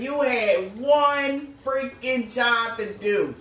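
slow, deliberate mock scolding; universe scolding. Universe telling this person off, slow mock scolding. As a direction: spell it out like a fed-up cosmic parent. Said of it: "the universe telling this person".

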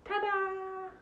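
high sing-song ta-da; magician's ta-da. Acted. Magician revealing the trick to kids, high and showy. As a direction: flourish it like a showman.

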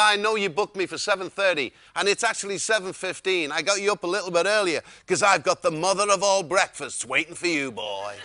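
lightly voiced hearty Texan, dropping on the last words; Wayne. Wayne promises his guest a huge breakfast, mild Texan impression. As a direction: sell it like a Texan host, lightly imitated. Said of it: "he said".

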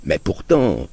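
a meek mild but-still; father meekly attempting to object; sheepish objection. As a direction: venture a timid objection. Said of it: "d'une voix coupable".

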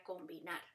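"combinar" as com, bi, nar; "combinar" divided between m and b; split into syllables. Shown as a demonstration. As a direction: say "combinar" beat by beat. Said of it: "consonante se divide".

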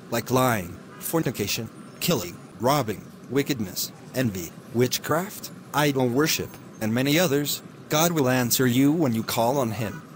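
steady, earnest sermon delivery; radio preaching. Acted. Preacher on the radio urging listeners, earnest sermon voice. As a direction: preach good news to the listeners.

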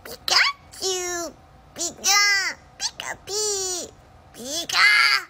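high squeaky Pikachu cry; vintage cartoon voice. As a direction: chirp it out like the little electric mouse. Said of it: "Stitch This with a cartoon impression".

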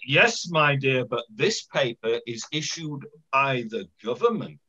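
lightly put-on posh official; a touch of posh condescension to a householder; lightly acted posh accent. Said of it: "he said in his posh voice".

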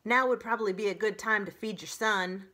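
fast, loud, firm; brisk goose. Acted. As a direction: nudge the robot briskly.

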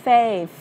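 "Faith" with air pushed over the tongue for th; th ending. Shown as a demonstration. Teacher showing tongue placement, "Faith" with airy final th. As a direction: end "Faith" on an airy th between the teeth. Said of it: "Lưỡi dưới hai răng mà đẩy hơi ra".

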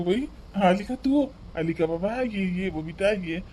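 joyful greeting. Acted. Sick father greets his daughter.

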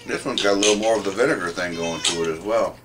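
talking with food in mouth; words between bites; chewing. Real, not acted. Seen 1: man forks food into mouth, then talks while chewing.

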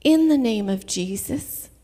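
calm, restrained declaration; calm command. Retold or imitated. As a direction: say it evenly, without yelling. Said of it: "I just calmly said".

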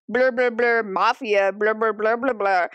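imitating indistinct background talk; overheard babble. Eavesdropper catching only the word mafia, imitated babble. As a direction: run nonsense syllables around one clear word. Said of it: "she overhears her being like".

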